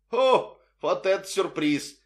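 a cabby's happy surprise at meeting Russians; exclaiming. A narrator's reading. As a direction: burst out with glad surprise. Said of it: "воскликнул шофёр".

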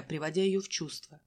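plain reading voice

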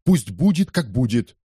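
sudden high burst, then settling; defiant outburst. Acted. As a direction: fling it out, giving up. Кетчу in despair. (отчаянный выкрик)

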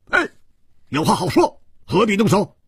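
calling out urgently. A narrator's reading. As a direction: shout to stop the fight. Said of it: "大叫道". (大声劝阻)

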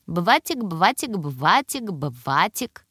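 put-on бватик with в for р, slow toddler voice; says w for r. A narrator's reading. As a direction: say бватик slowly, в in place of р. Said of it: "очаровательно картавя".

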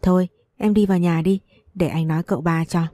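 put-on calm him like a kind older brother; gentle young master comforting a crying maid. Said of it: "giọng hiền hòa".

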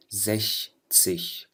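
زش سيش drawn out very slowly and softly; sechzig with sh. Shown as a demonstration. Teacher slowly models sechzig for students. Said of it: "بتصير حرف شين".

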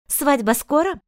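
a hint of teasing mother; sly mother. A narrator's reading. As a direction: ask with a sly smile. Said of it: "Лукаво улыбнулась леди Арн".

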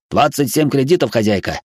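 insistent high robot voice. Acted. Robot Spy.

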